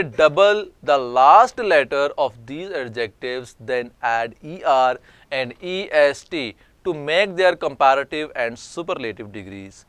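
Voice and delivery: slow, deliberate dictation of a grammar rule; slow rule reading. Acted. Teacher slowly reading an English rule to students, dictation pace. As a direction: read the rule word by word for students.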